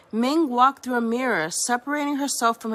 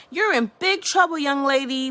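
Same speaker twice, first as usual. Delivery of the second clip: bellowing; 3 semitones higher, 3 dB louder than usual. Acted. Angry mother bellowing at her daughter. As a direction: scold her like an angry mom. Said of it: "bellowed Ming".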